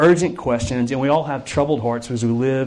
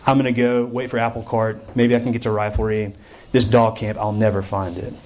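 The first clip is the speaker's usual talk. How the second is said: low, resigned mumbling to oneself; giving up; 5 semitones lower than usual. Acted. Camper abandons the search for dog camp, resigned. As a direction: let the voice sink in defeat. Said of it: "you just kinda give up and say".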